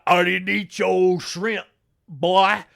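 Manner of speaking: a hint of a gruff boyfriend; lightly voiced dismissive stepdad; mock stepdad voice. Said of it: "that voice sounds problematic".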